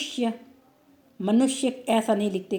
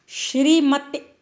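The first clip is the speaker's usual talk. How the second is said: श्रीमती said slowly, syllable by syllable; slow model reading; 4 semitones higher, 3 dB louder, slower than usual. Shown as a demonstration. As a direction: read श्रीमती slowly and clearly for the class. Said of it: "teacher models slow reading". (श्रीमती को धीरे-धीरे साफ़ बोलना)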